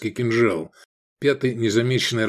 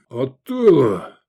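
slow, louder, puffed out while stabbing; puffing with effort; 2 semitones higher, 4 dB louder, much slower than usual. Acted. Gefestai puffing as he drives his sword in. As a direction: grunt it out mid-thrust. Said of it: "пропыхтел сын Ерная".

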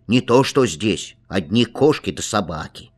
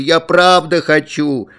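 higher, louder, slow tearful plea; crying; 6 semitones higher, 5 dB louder than usual. A narrator's reading. Boy begs his father through tears, higher and louder. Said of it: "заплакал я ещё громче".

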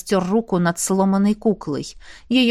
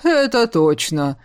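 chuckling monster; 3 semitones lower than usual. A narrator's reading. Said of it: "хохотнул монстр".

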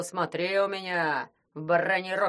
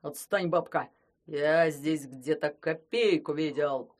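snapping; 4 semitones lower, 3 dB louder, slower than usual. Acted. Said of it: "огрызнулся Кощей".

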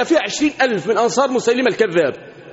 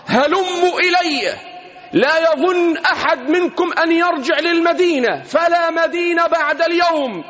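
rousing call to rally the troops; battle cry; 3 semitones higher than usual. Retold or imitated. Preacher voicing al-Bara calling the Ansar to charge, rousing cry. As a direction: cry out to the Ansar to come back. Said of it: "فأخذ البراء ينادي وهو يقول".

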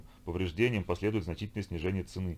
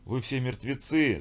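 slow, raised cry, pitched up; shouted curse; 5 semitones higher, slower than usual. Acted. Tortured captain shouts at the vikings, slow raised cry. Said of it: "закричал в ответ пытаемый".

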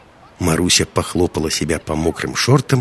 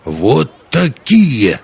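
slow, drawn-out mock monster voice, higher and louder; scary voice; 5 semitones higher, 4 dB louder, much slower than usual. A narrator's reading. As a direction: play the bogeyman to scare a little girl. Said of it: "страшным голосом сказал Юки". (страшным голосом, нарочито медленно)

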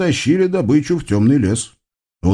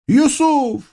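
высокий звонкий голос юноши; представься звонко и высоко; юноша Юсуф. Acted. Юноша называет себя. (высокий голос юноши)

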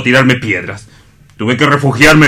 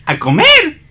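much higher, startled repeat; startled high question; slower than usual. Acted. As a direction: jump up in pitch, caught off guard. Hans startled by invitation.

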